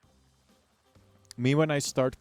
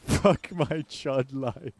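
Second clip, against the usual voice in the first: quoting a chat line; 3 semitones higher, 4 dB louder, slower than usual. Retold or imitated. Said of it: "you said during the".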